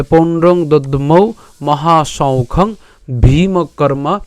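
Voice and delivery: measured Sanskrit verse reading; verse recitation. Shown as a demonstration. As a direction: recite the half-verse steadily. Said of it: "recites verse half".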